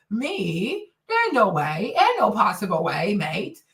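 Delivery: mocking British accent, lightly done; a mild put-on British accent. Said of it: "Their goofy ass accent".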